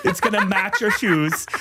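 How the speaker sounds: put-on Tan France in a bright northern English accent; Tan France impression. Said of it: "Do you wanna hear my Tan France impression?".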